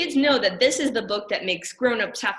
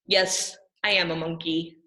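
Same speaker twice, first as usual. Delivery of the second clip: grudging, lower admission; reluctant admission; 3 semitones lower than usual. Acted. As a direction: give in and say it grudgingly. Reads forced line reluctantly.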